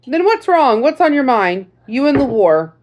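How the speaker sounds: lightly voiced grandfatherly veteran; old sergeant voice. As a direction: greet the girl like a folksy old sergeant. Sergeant presses her.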